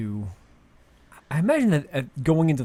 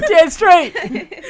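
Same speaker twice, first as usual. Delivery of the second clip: higher, louder mock dog voice; eager barking dog; 12 dB louder than usual. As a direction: yap it like an excited dog. Copying friend's dog voice.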